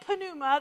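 "pneuma" as puh-NOO-muh, P pronounced; sounded P. Shown as a demonstration. Warning the congregation off it, "pneuma" with sounded P. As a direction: add a puh at the start of "pneuma". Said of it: "Don't say pneuma".

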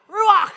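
"Ruach" loud, ending in a throaty scrape; guttural Hebrew ch. Shown as a demonstration. Teaching a congregation Hebrew, "Ruach" with a guttural CH. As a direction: say "Ruach" as if something's caught in your throat. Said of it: "Like you got something caught in the back of your throat".

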